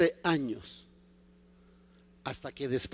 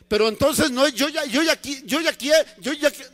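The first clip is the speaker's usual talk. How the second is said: higher, sputtering objection; Paul's stammered protest; 5 semitones higher than usual. Acted. Impatient Paul interrupts the Lord, stammered protest. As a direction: keep starting and breaking off insistently.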